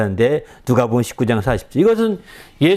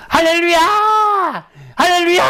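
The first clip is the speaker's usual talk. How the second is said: forced shout of praise. Shown as a demonstration. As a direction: throw it out like you're overdoing it on purpose. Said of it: "이렇게 소리도 막 그냥".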